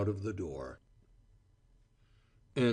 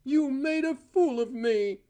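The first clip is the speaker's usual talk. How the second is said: higher, louder, near a shriek; voice rising shrilly; 3 dB louder than usual. A narrator's reading. Cora screaming at Val, a high shrill accusation. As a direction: let the voice climb high on the accusation. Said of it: "Her voice rose shrilly".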